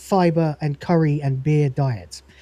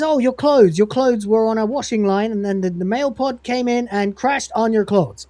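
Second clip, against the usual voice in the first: higher, eager rush; eager guess; 5 semitones higher than usual. Acted. The Cat's clue guessed by an eager crewmate, higher and quick. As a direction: guess it at last. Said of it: "he says".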